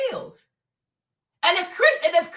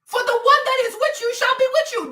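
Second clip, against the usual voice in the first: normal talking voice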